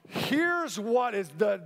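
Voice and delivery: normal talking voice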